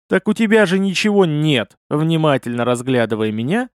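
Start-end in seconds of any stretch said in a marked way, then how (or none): 0.1-1.8 higher, mildly astonished statement; surprised. A narrator's reading. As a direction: point out the obvious in surprise. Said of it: "с удивлением констатировал старый пройдоха". (с удивлением)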